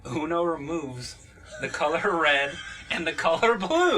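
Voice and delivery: slowed down, each word spelled out; slow and deliberate. Shown as a demonstration. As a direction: say it slowly so they get it. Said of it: "go again".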